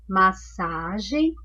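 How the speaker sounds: massagem said slowly with a rise at the end; slow teacher reading. Shown as a demonstration. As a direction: repeat massagem slowly for the class. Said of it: "uma outra palavra que tem dígrafo". (massagem devagar, com subida no fim)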